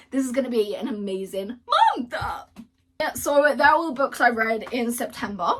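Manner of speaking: breathless from talking nonstop; out of breath. Real, not acted. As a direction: talk a little winded. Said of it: "I'm actually out of breath".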